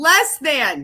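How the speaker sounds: loud yelling. Reading a news report aloud and stumbling over it, yelling. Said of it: "Sorry for yelling".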